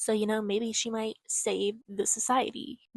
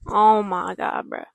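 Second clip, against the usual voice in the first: loud, slow shocked outburst; 7 dB louder than usual. Real, not acted. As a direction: blurt it out, stunned. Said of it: "reacting to the bombshell".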